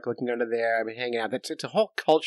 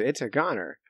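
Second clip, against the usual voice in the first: hushed, breathy whisper of a punchline; a whispered, half-joking verdict; whispered aside; 3 semitones lower, 6 dB quieter than usual. Real, not acted. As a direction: drop to a whisper for the kicker. Dramatic aside about the speared fish.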